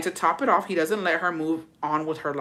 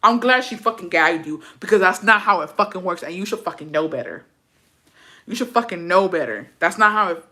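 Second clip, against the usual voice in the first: worked up; 5 dB louder than usual. Real, not acted. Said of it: "I'm worked up".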